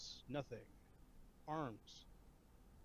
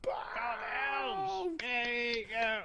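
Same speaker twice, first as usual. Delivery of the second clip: crowd cheer; 10 semitones higher, 8 dB louder, much slower than usual. Pretend. Playing the cheering arena crowd.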